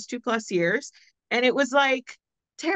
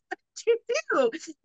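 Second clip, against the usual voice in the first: eager question; 13 semitones higher than usual. Retold or imitated. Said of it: "And I was like".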